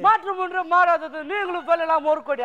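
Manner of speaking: lightly imitated star delivering slogans; Surya. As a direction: mockingly reel off a film star's famous lines. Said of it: "sir, Surya voice".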